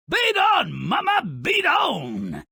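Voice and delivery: loud, high gleeful cheer. Real, not acted. Narrator cheering the mother beating Jack, loud gleeful cheer. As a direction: egg her on with the beating.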